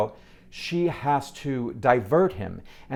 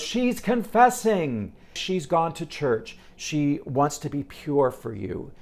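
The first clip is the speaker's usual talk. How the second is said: imitating a showman's cover story; slower than usual. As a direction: slowly announce a made-up excuse, mildly theatrical. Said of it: "And he goes".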